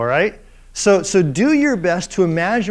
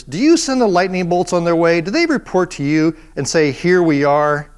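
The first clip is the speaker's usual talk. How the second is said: sarcastic God. Retold or imitated. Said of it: "The sarcasm is just what gets me".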